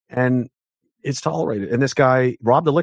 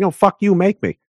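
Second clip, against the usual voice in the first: louder, raised, defiant retort; defiant rant; 8 semitones higher, 4 dB louder than usual. Retold or imitated. Ranting back at authorities, loud and defiant. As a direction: throw the challenge right back. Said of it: "I just went on a rant".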